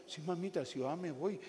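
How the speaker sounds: mock timid, henpecked husband backing away; marido com medo da mulher. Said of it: "hombres que le tienen miedo a su mujer".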